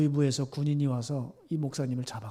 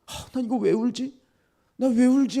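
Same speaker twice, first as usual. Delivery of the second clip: high, agitated self-question; retold confusion, pitched up; overwhelmed bewilderment; 9 semitones higher, 5 dB louder than usual. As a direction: act out being overcome and puzzled. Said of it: "이게 감당이 안 돼서".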